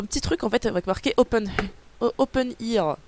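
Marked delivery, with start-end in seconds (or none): 2.0-3.0 English with a French accent. Real, not acted. Streamer reading the box label, clumsy French-accented English. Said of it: "Avec mon magnifique accent anglais".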